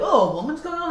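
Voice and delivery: high-pitched mock audience dismay; mock crowd reaction. Comic imitating the crowd at a woman comic, mocking. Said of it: "even the crowd would be like".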